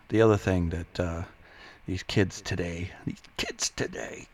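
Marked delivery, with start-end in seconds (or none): 3.1-4.3 put-on high, strained old-crank caricature; grumpy old-timer. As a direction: play a hammed-up crotchety old man. Old man chasing kids off lawn.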